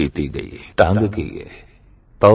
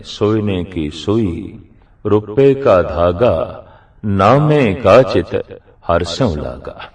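slow, measured verse recitation; scripture recitation; slower than usual. Acted. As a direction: recite the sacred line slowly, phrase by phrase. Recites the verse again slowly. (Gurbani ਦੀ ਤੁਕ ਦਾ ਹੌਲੀ, ਠਰ੍ਹੰਮੇ ਵਾਲਾ ਉਚਾਰਨ)

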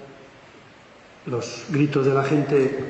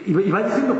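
normal talking voice

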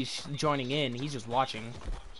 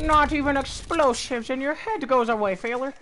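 put-on hillbilly accent; 6 semitones higher than usual. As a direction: taunt like a country hillbilly. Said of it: "do my fucking hillbilly accent".

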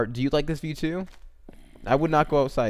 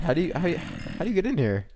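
baffled; 6 semitones higher, much faster than usual. Real, not acted. Baffled by house.

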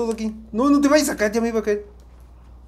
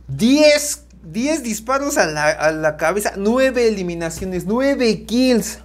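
loud, high announcer stat call; wrestling commentator; 4 semitones higher, 4 dB louder, slower than usual. Acted. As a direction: shout the numbers like a ring announcer. Listing stats after the win. (comentarista de lucha libre)

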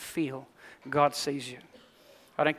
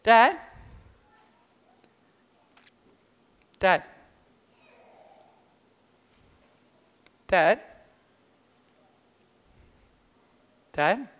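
fading fearful call; 4 semitones higher, much slower than usual. Retold or imitated. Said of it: "They were starting to get afraid".

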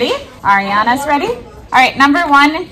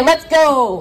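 higher, drawn-out rallying "go"; celebratory cheer; 4 semitones higher than usual. Shown as a demonstration. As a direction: model a cheer for the class. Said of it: "If you got it right, say".

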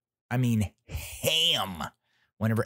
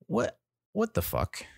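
pitched way up in disbelief; incredulous; 12 semitones higher than usual. Real, not acted. Ranting about the car thieves, high incredulous outburst. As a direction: shoot up high in outrage.

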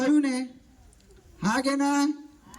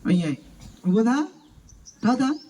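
calling out; 3 semitones higher, 5 dB louder than usual. Shown as a demonstration. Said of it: "કેવી રીતે બોલાવશો તમને ખબર?".

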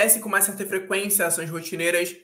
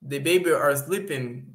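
slow test read; 3 semitones lower, slower than usual. Shown as a demonstration. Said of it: "testing options in sentence".

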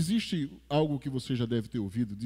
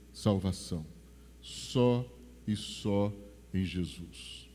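solemn altar call; 4 semitones lower than usual. Acted. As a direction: draw them in gently toward Jesus. Soft solemn appeal.

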